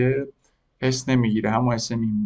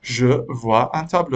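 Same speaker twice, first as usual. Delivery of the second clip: slow repeat; much slower than usual. Shown as a demonstration. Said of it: "یه بار دیگه".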